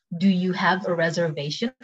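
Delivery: measured teaching pronunciation; slow take. Shown as a demonstration. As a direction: model it slowly for learners. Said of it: "cepet sama pelan".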